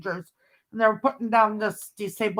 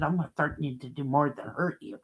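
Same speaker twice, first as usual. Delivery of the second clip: retold threat; 7 semitones lower, 8 dB quieter than usual. Retells threatening a teenager.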